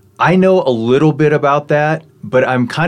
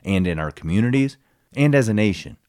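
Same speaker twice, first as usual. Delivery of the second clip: measured, scripted host introduction; podcast intro read; 2 semitones lower, 5 dB quieter than usual. Acted. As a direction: read the show intro with deliberate pauses between phrases.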